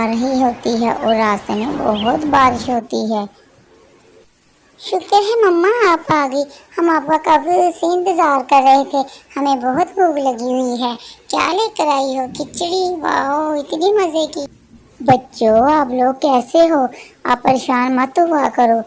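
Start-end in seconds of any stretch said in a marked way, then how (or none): 4.8-14.4 put-on high, eager kids' voices greeting mum; children cheering for their mother's khichdi; excited children. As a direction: play the hungry little ones thrilled she's back.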